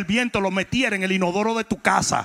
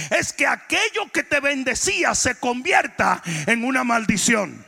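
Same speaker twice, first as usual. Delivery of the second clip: preaching; 4 semitones higher than usual. Real, not acted. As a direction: drive each phrase home to the congregation. Preaches at full force to congregation.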